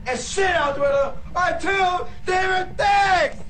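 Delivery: put-on slurred angry drunk yelling; belligerent drunk. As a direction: bark it like a sloppy drunk.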